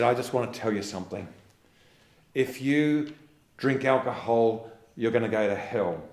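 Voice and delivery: loud, hammed-up preacher warning; loud mock sermon threat; mock hellfire preacher. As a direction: boom it out like a fire-and-brimstone preacher. Preacher quoted warning of hell.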